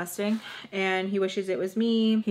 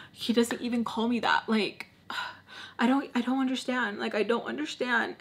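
soft, hurt; 5 dB quieter than usual. Retold or imitated. Roommate hurt on seeing the message.

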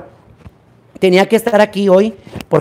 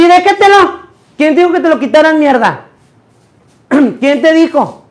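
angry scolding; 5 semitones higher than usual. Real, not acted. Scolding a helper for taking something off her, angry. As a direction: tell him off sharply. Scolding someone who removed it.

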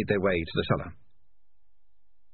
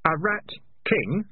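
raised, slow, pointed question; sharply questioning echo; sharp query; 8 semitones higher, slower than usual. A narrator's reading. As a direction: seize on the words and question them. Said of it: "said Keith sharply".

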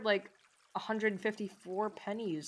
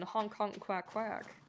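playful duck honks and quacks; duck noises; 2 semitones higher, 4 dB quieter than usual. Pretend. Joking about mallard duck.

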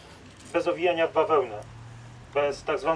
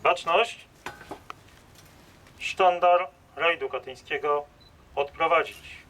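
drill sergeant; 2 semitones higher than usual. Real, not acted. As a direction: call the ranks to attention. Ceremonial commands to attention. (głośna komenda wojskowa)

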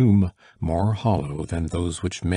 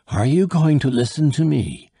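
raised, high, insistent demand; crying out; 8 semitones higher, 6 dB louder than usual. A narrator's reading. Dying man demanding his son listen, crying out. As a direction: cry it out, louder and higher. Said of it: "cried the dying man".

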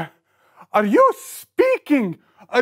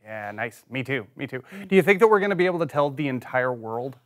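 low-voiced disciple; 12 semitones lower, 5 dB quieter, much faster than usual. Plays a disciple in skit.

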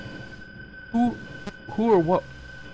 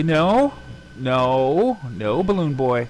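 loud protest; 2 semitones higher, 4 dB louder, slower than usual. Real, not acted. Balloon Boy appears.

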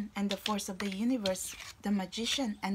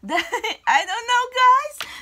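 high, loud excited burst; excited squeal; 13 semitones higher, 12 dB louder, slower than usual. Real, not acted. Tarot reader gushing to viewers, high and loud. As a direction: gush with giddy excitement over the cards.

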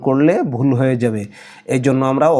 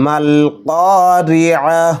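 slow Quran recitation; much slower than usual. Shown as a demonstration. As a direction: recite slowly in tajweed chant. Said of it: "এভাবেও পড়া যাবে". (ধীর সুরেলা কুরআন তিলাওয়াত)

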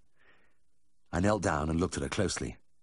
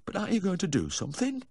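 high, plaintive question; unhappy plea; 13 semitones higher than usual. A narrator's reading. Unhappy owner begging the vet to act, plaintive. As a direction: ask it high-pitched, still fretting. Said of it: "He still seemed unhappy".

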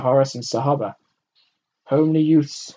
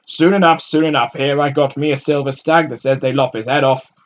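gleeful bettor; 4 semitones higher, 9 dB louder than usual. A narrator's reading. Crowd man betting gleefully.

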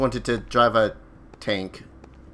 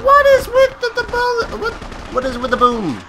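shrieked alarm; 6 dB louder than usual. Real, not acted. Startled by enemy fire.

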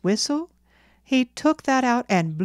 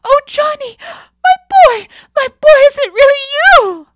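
very high, overjoyed shrieks; frantic mother's scream of relief; 16 dB louder than usual. A narrator's reading. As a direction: cry out wildly, scarcely believing your son is back. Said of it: "screamed Mother, starting up".

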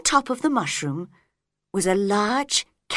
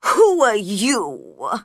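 slow, louder and cold; unfriendly; 6 dB louder, much slower than usual. A narrator's reading. Caterpillar repeats question to Alice, unfriendly voice. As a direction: press the question rudely. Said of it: "in a very unfriendly voice".

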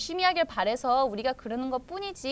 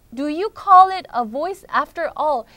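less drawn-out "Do you call it a voice after all?"; restrained lament; 6 dB louder, much slower than usual. Acted. Teacher repeats Rookie's question before translating, steadier and less dramatic. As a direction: repeat it more evenly, falling at the end.

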